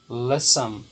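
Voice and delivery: "listen" with LIS stressed, ending unstressed; stress on first syllable of listen. Shown as a demonstration. Teacher explains the undoubled N, "listen" stressed on LIS. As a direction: put the weight on LIS in "listen". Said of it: "a mais forte é a primeira".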